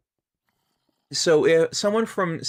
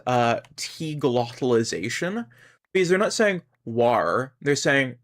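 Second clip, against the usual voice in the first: ordinary talk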